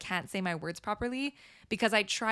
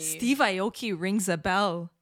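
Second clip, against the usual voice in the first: incredulous echo; much slower than usual. Real, not acted. Incredulously repeats friend's understatement.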